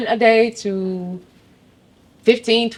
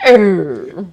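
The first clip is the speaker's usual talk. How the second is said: playful growl; 7 dB louder than usual. Shown as a demonstration. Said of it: "Like that".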